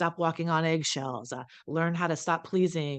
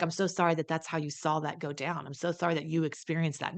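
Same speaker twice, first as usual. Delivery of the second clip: hollow non-apology. Shown as a demonstration. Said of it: "Not even like".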